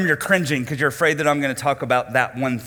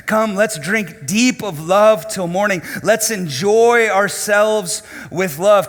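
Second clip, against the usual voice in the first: slow, lightly voiced seductive invitation; mock seductress; 4 semitones higher, 5 dB louder, slower than usual. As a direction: lure him in, drawn out and louder. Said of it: "with a brazen face said this".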